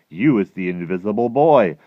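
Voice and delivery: loud, excited exclamation; squiffy with excitement. A narrator's reading. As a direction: pitch it up as a delighted discovery. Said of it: "my daddy is squiffy with excitement".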